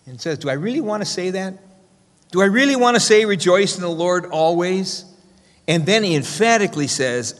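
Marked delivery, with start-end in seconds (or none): 0.4-1.6 raised pitch, softer, wondering aloud; a touch of hesitation, asked quietly; hesitant self-question. Retold or imitated. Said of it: "as if he pauses for a moment there". 2.3-5.0 incredulous self-question. Retold or imitated. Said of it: "as if he pauses for a moment there".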